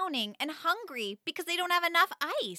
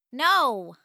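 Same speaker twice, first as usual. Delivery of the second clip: a curt, louder snapped no; sharp no; 7 dB louder than usual. Acted. Girl cutting off her mom's question, curt and louder. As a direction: bite it off short. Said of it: "I sharply replied".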